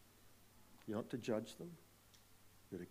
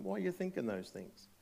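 voicing Jesus; 8 semitones higher than usual. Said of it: "So he says to them".

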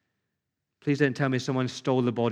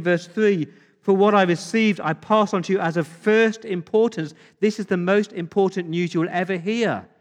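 raised, louder pulpit voice; emphatic preaching; 5 semitones higher, 5 dB louder than usual. Real, not acted. Preacher declaring the Easter news to the congregation, emphatic preaching. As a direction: proclaim it forcefully to the congregation.

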